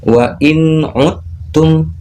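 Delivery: wa in uttum drawn out, d merged into a doubled tt; very slow wa in uttum; slow recitation demo. Shown as a demonstration. Teacher to parents and children, slow recitation. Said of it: "Contoh bacanya seperti".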